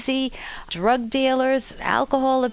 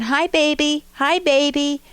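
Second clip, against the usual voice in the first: put-on a touch of frustrated toddler, a little louder; 5 semitones higher, 4 dB louder than usual. Toddler frustrated that the baby won't look, mild impatience. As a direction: push harder to get noticed. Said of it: "to frustration".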